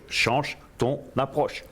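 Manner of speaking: the same line in French, slow and deliberate; slow French translation. Shown as a demonstration. Translating the motto for viewers, slow and deliberate. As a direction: give Change ton approche slowly, word by word. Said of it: "comprendre en français".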